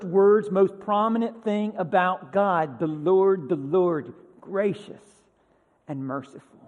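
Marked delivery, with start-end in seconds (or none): 2.8-6.6 gentle proclamation. Retold or imitated. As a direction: let it fall gently. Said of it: "he says".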